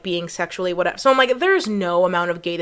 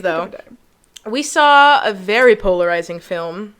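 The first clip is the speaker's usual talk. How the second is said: ordinary talk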